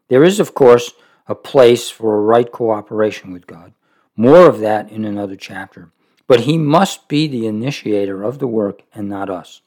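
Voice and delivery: steady measured reading of a devotional book; reading aloud. Acted. Preacher reading Roy's book to listeners, measured reading voice. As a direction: read the passage evenly to the congregation.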